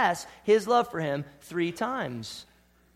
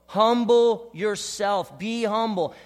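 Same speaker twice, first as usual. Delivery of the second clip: emphatic urging; 2 semitones higher, 5 dB louder, slower than usual. Acted. Preacher urging humility.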